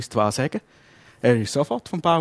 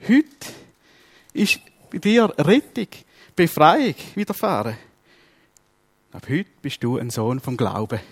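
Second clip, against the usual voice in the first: proclaiming Jesus. Retold or imitated. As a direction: announce the blessing like Jesus.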